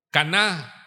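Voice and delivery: "caná" with the final A stressed. Shown as a demonstration. Preacher teaching congregation a word, "caná" stressed on the final A. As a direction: land firmly on the last A of "caná". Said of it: "con acento en la A".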